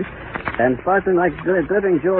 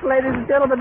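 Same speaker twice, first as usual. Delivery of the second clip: much higher, strained and near tears; horrified address; 8 semitones higher than usual. Real, not acted. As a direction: call out to listeners in shock. Same address, now in horror.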